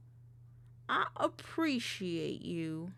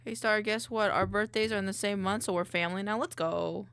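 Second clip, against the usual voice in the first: excited; 6 dB louder than usual. Real, not acted. Excited to share birthday month.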